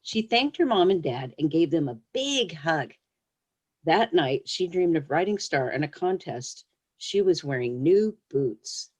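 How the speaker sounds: gentle read-aloud storytelling voice; story reading. Acted. Author reading her pony story to young listeners, storyteller voice. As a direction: read it like a picture book to children.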